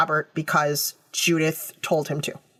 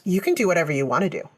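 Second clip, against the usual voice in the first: quick, offhand retold brush-off; lightly imitated indifference; casual dismissal; faster than usual. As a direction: wave it away as if unbothered. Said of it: "she's very casual through this".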